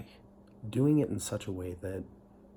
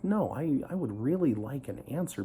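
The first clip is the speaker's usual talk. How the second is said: higher and louder, pushing hard; insistent demand; 5 semitones higher, 4 dB louder than usual. Retold or imitated. Missionary demanding an answer from his companion, loud and insistent. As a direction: press for an answer, upset.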